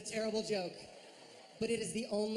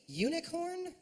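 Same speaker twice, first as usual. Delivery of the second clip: incredulous; 9 semitones higher, slower than usual. Shown as a demonstration. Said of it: "say something basic a couple times".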